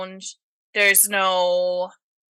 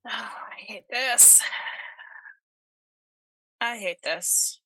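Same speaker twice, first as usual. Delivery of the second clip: slow unvoiced whisper of dread; 6 dB quieter, slower than usual. Real, not acted. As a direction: whisper it, creeped out. Creeped out by the described shapes.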